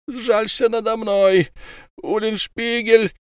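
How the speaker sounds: high, slow, wailing plea from the trapped man; captured werewolf pleading with Ulenspiegel. Acted. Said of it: "Волк заговорил".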